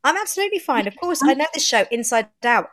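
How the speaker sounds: high, over-confident self-reassurance; brave front. Acted. Performer talking herself out of a freak-out, brave high front. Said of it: "I need to just be like".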